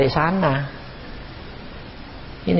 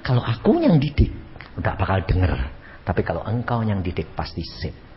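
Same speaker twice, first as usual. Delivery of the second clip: lower, softer surrendering prayer; right kind of prayer; 8 semitones lower, 3 dB quieter than usual. Shown as a demonstration. Wife entrusting husband to God, softly. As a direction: hand it over to God gently, low. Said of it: "Loh, kamu harusnya begini".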